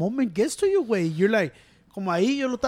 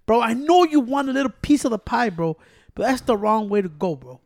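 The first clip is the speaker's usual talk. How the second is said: louder, mock advice voice; lecturing a fellow fighter; 3 dB louder than usual. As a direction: talk down to him like a wise older fighter. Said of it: "I'm like".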